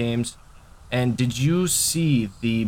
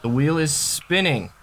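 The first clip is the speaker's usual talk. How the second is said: hyped giveaway announcement; 3 semitones higher, slower than usual. Real, not acted. Spinning the giveaway wheel.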